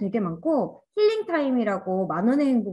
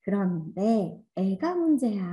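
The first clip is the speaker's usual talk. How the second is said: mock complaint; slower than usual. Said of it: "막 이렇게 하잖아요".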